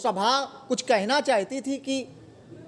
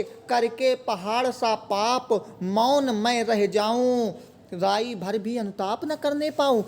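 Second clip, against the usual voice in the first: poem recitation. Acted.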